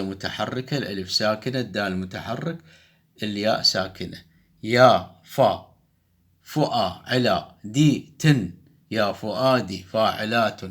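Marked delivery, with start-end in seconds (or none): 4.6-8.5 slow, each syllable chopped apart. Shown as a demonstration. Teacher scanning the verse slowly for students, syllable by syllable. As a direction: beat out يا فا فؤا دي تن slowly, one syllable at a time. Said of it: "نقطع صوتًا".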